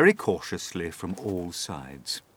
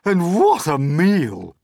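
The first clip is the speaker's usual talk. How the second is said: ecstatic cry; 12 semitones higher, 10 dB louder than usual. A narrator's reading. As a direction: cry out each word in greedy delight. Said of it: "Aunt Sponge cried out".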